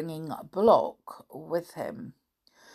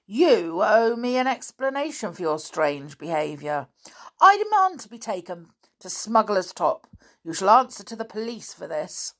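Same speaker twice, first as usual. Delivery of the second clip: louder, higher indignant demand; stern; 5 semitones higher, 5 dB louder than usual. A narrator's reading. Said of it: "spoke sternly".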